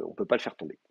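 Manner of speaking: « on ne peut pas le faire tomber » redit plus grave et plus doux; répéter en insistant doucement, plus grave; répétition plus basse. Shown as a demonstration. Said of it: "là encore". (répétition grave et douce pour marteler)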